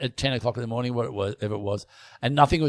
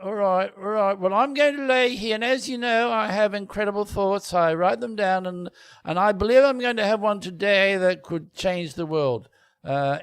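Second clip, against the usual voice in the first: posh gentleman humouring his gardener; pompous posh Newton; 5 semitones higher, 3 dB quieter than usual. Pretend. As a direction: talk grandly about your own genius. Plays Newton in the sketch.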